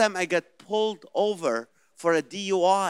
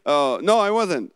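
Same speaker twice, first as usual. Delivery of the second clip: indignant denial; 5 dB louder than usual. Acted. Elderly mom caught dozing over her book, indignant denial. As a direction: deny it instantly as the caught-out mom. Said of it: "deny that they fell asleep".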